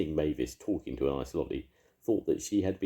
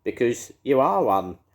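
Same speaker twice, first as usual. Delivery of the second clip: louder, gloating witch voice; cackling witch; 9 semitones higher, 10 dB louder than usual. A narrator's reading. Edna gloating at the beast in a cackling witch voice. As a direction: cackle it at him like a wicked witch. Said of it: "cackled Edna".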